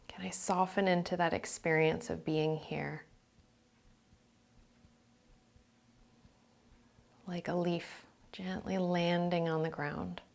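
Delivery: calm meditation voice, phrases spaced by silence; guided meditation. Real, not acted.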